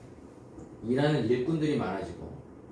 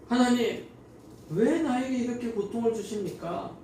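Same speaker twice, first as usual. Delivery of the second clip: tearful prayer; 10 semitones higher than usual. Retold or imitated. Isaac crying out to God in his suffering, tearful and pleading. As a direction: plead with God as if near tears. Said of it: "울면서 기도를 하고 있었을 거예요".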